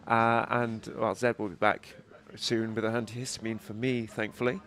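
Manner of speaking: stuffy, nasal voice from allergies. Real, not acted. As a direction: talk through a blocked, nasal nose. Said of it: "My nasal voice is not my usual tone".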